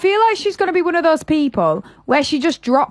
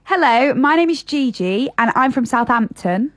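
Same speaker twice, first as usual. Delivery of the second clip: imitated Southern English, every syllable sounded; Southern English impression. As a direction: put on a careful Southern English accent. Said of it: "do an impression of the Southern accent".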